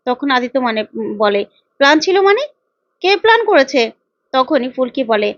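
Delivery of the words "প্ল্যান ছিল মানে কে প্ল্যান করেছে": shocked question. Acted. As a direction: demand the truth, stunned. Aditya shocked it was planned. (অবাক হয়ে উঁচু গলায় প্রশ্ন)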